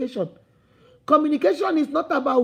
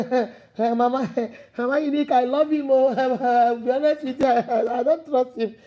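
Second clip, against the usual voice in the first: lightly voiced woman stalling with little laughs; hesitant coaching client. Woman admitting distrust to her relationship coach, hesitant. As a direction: dither and chuckle before admitting doubt. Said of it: "the woman will say".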